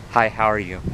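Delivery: flat, uncaring low greeting; low monotone voice. Retold or imitated. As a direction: mumble it, cold and bored. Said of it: "Low voice, a frown".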